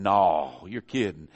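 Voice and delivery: low, sarcastic mock surprise; mock disbelief. Listeners reacting to the preacher's obvious Southern accent, mock disbelief. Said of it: "I know people are going".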